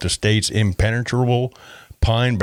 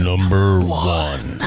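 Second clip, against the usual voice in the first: slow, stretched-out big reveal; mock countdown announcer; much slower than usual. Co-host joining the countdown, drawn-out announcer. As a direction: stretch both words out like an announcer.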